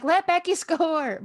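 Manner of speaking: mild, high mock cheer from the stands; mock yell. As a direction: imitate fans calling out, drawn out. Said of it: "They were yelling along with you".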